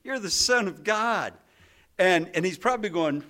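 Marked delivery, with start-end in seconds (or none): 0.0-1.3 raised, eager retold outburst; mildly excited blurt, pitched up. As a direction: blurt it out like an impulsive disciple. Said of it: "And Peter blurts out".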